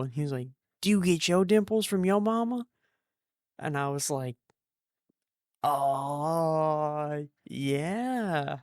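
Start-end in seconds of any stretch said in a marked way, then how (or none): 0.8-2.7 curious dentist. Retold or imitated. Dentist voiced asking about dimples. 5.6-8.6 awkward reply. Retold or imitated.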